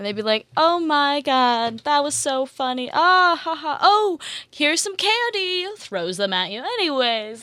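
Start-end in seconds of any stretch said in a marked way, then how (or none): 0.6-5.7 put-on very slow, high, drawn-out drunken adult voice, giggling. Retelling how adults handing out Halloween candy talked: imitating a drunk adult. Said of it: "kinda drunk adults".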